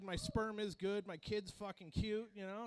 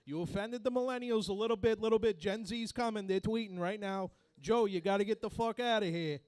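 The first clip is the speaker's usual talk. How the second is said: Robert De Niro impression; 4 dB louder than usual. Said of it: "Robert De Niro would then come in the room".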